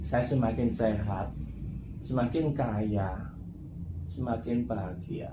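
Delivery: slow, dragged affirmation from bed; drowsy affirmation. Retold or imitated. Friends reciting affirmations lying in bed, slow and lazy. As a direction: mumble it slowly like you are still in bed. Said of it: "sambil di atas tempat tidur".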